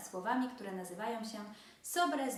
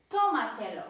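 tómatelo with TÓ punched loud, then falling; tómatelo, accented fourth syllable from the end; stress on first syllable; 8 dB louder than usual. Shown as a demonstration. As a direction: hit the tó of tómatelo hard. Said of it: "Akcent pada na to".

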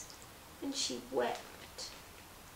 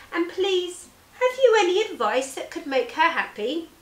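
pitched up and louder, calling into the trees; high calling merchant; 6 semitones higher, 5 dB louder than usual. Acted. Merchant calls up to the wild parrots, high and eager.

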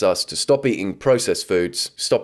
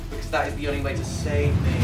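mock plea; 8 semitones higher than usual. Pleading outro from the ocean.

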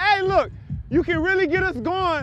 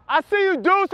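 toned-down greeting; 4 semitones higher, 4 dB louder than usual. Real, not acted. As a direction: pull it back after shouting too loud. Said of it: "Oh, my bad".

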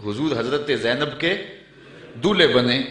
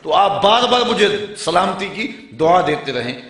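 eager explanation; 4 semitones higher, 5 dB louder than usual. Acted. Companion explains his clever reason.

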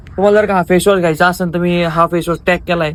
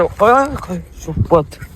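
startled gasp; much slower than usual. Real, not acted. Startled by something at foot.

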